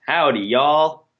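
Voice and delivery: lightly put-on country accent. Co-host teasing with a mild cowboy voice. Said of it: "you've been told not to do impressions or accents or characters".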